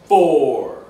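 loud, spaced-out counting; big slow game-show countdown; dramatic countdown. Pretend. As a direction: call each number out with a falling swoop. Countdown to the reveal.

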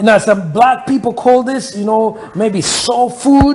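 playful American accent, lightly put on; a hint of an American soul-food host. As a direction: slip into a laid-back American accent. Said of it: "I can always talk with my American accent".

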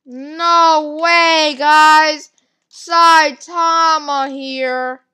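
drawn-out excited disbelief; amazed exclamation. Real, not acted. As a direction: stretch the words out in amazement. Still amazed Saitama is here.

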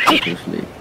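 whispered lullaby hush; whispering. Real, not acted. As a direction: whisper it like lulling a pet. Lulling a tamed dodo to sleep.

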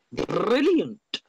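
Brilliant thrown up high with a punch, then falling; excited praise. Real, not acted. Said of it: "I'll say it again".

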